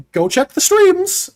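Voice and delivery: high, slow pitchy plug; YouTuber voice. Shown as a demonstration. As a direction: sell the streams hard, slow and high. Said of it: "Let's get YouTuber voice going".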